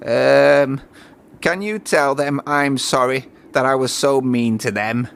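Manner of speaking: a lightly voiced crane, sheepish; lightly voiced crane apologising; sorry Cranky.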